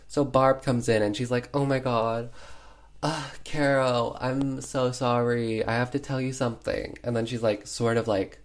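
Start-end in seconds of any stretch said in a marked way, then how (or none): 1.5-7.0 milk the apology like a bad actress; mock dramatic regret; hamming it up. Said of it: "definitely hamming it up".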